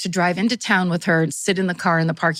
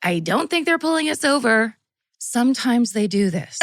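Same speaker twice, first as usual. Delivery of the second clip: mom voice, higher; a higher, fussing mom; 4 semitones higher than usual. Retold or imitated. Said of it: "give people different voices".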